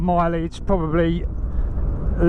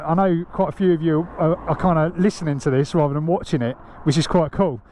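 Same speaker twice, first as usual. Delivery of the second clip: stuffy, nasal voice like a blocked nose. Real, not acted. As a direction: talk as if your nose is pinched shut. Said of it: "with a peg on my nose".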